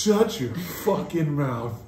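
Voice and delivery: slow, drawn-out mock outrage; mock-offended retort. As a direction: stretch out each word in disbelief.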